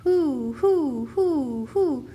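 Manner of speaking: loud, high hooting like a great horned owl; owl call. A narrator's reading. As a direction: hoot it out into the night woods. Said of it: "Then he called".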